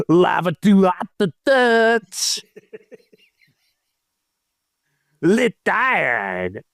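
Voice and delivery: lightly hammed-up roll call; mock reader, drawing out some names; put-on name-reading voice. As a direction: read each name in a slightly put-on voice. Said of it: "I'll try to do it in the same voice".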